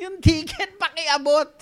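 high, loud impatient call; loud shout. Retold or imitated. Passenger calling to the seatmate, loud impatient shout. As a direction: bark it across the bus. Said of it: "ang lakas na ng boses ko".

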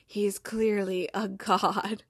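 slow, reverent whisper; awed whisper. Retold or imitated. Teammate whispering back about the star, slow and reverent. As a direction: hush it like a prayer. Jan Moss, whispered reply.

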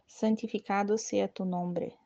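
steady, measured devotional recitation; prayer recitation. Acted. Leading the novena's Our Father aloud, reverent prayer recitation.

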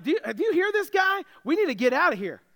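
urgent, hushed-up fear played for laughs; mock panic. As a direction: lightly play jittery men wanting out. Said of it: "They're all afraid".

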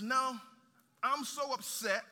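a sharp loud refusal, a touch of mock anger; angry servant. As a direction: play the unforgiving servant snapping no. Unforgiving servant refuses his debtor.

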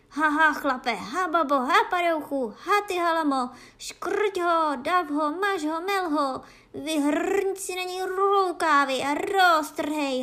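high, loud guard-dog attack cry; loud, high-pitched rallying yells; battle shout. A narrator's reading. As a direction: roar them on into the fight. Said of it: "vykřikl Bufíno silným hlasem".

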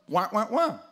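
mock crybaby wah wah; hammed-up whine sound; mock whining. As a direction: whimper like a sulking kid. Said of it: "Gideon says".

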